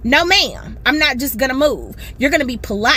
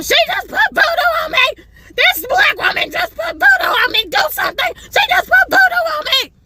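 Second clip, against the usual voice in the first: panicked screaming lady. Retold or imitated. The lady to the Walmart worker, a high mock scream for help. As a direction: squeal for help in fake terror. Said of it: "She starts saying to him".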